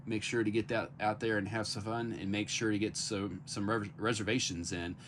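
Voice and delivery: stammering from the cold; talking through cold shivers; shivering. Real, not acted. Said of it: "I can't talk 'cause it's cold".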